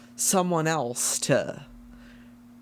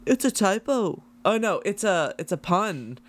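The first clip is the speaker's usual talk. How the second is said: higher, chirpy mock Paul voice; quoting Paul; 5 semitones higher than usual. Retelling Paul's note in the book, mock Paul voice. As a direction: act out Paul's cheeky aside. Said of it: "Paul helpfully noted".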